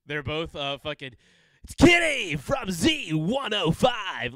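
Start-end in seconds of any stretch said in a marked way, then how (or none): 1.6-4.3 high, very drawn-out DJ parody; radio voice. Retold or imitated. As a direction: stretch every word like a hammed-up station ID. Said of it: "same exact radio voice".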